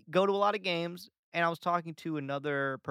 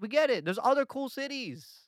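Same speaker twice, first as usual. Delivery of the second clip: higher, mildly loud "Relax, we get it"; higher mock exasperation; exasperated; 8 semitones higher, 5 dB louder than usual. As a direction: roll your eyes at Boston's bragging. Exasperated mock plea to Boston.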